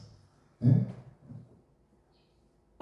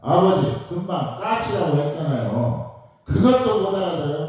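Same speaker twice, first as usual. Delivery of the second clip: angry outburst; 3 semitones higher than usual. Retold or imitated. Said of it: "버럭 화를 내면서".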